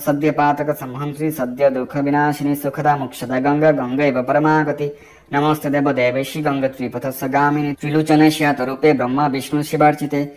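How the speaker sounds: measured devotional recital; mantra recitation. Acted. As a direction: intone the mantra as a prayer.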